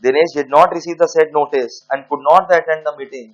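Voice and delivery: dictating word by word to students; slow dictation. Acted. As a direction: spell it out slowly for the class to write down. Dictating the case facts.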